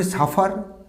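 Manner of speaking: সাফার with the final r sounded; common mispronunciation. Shown as a demonstration. Teacher showing the class the common error, সাফার with sounded r. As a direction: say সাফার with an audible r at the end. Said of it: "this is not suffer".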